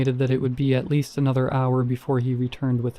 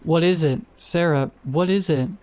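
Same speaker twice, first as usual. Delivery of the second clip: higher, urgent, frightened calls; panicked calling; 4 semitones higher than usual. Acted. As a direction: shout down in rising panic.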